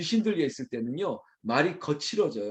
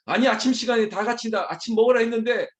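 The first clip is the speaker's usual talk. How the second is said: high, raised-voice scolding; acted irate parent, pitched up; angry yelling; 6 semitones higher, faster than usual. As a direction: rant like a fed-up father at breakfast. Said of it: "확 소리를 지르는 거죠".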